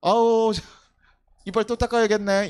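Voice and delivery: put-on fond sigh over the child, 닦아야겠네 said with mild exasperation; an indulgent parent, sighing; fondly resigned parent. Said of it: "아니, 이뻐요".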